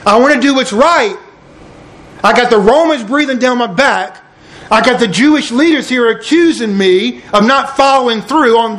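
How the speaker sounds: a touch of rising worry, lightly dramatized; acted scared Pilate. Preacher voices Pilate under pressure from all sides, mildly scared. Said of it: "See, he's getting scared".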